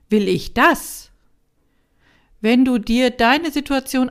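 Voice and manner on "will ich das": slow question leaning on „das“ with a rise; stress on DAS. Shown as a demonstration. Podcast coach demonstrating the third stress, weight on „das“. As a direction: hit „das“ and lift it at the end. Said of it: "Kommen wir nun zur dritten Betonung".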